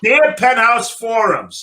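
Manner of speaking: slow, hammed-up letter reader; drawn-out mock Penthouse opener. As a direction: read it like a sleazy confession letter.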